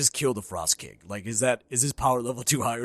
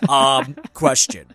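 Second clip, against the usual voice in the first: lower, dim-witted brute voice; character voice; 9 semitones lower than usual. Acted. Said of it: "this is gonna maybe be my character voice".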